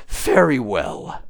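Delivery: mild relief in an unseen voice. A narrator's reading. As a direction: agree slowly, as if relieved. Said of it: "said the voice in a tone of relief".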